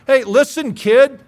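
defiant preaching. Acted. Preacher defies the woke kid.

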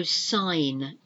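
"sign" said "sine", no G; silent G. Shown as a demonstration. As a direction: leave the G out of "sign". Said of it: "It's the silent G".

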